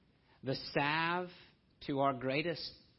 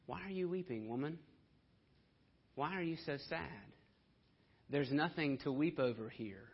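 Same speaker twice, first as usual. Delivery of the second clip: gentle rebuke; 4 dB quieter than usual. Acted. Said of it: "a gentle, rebuking question".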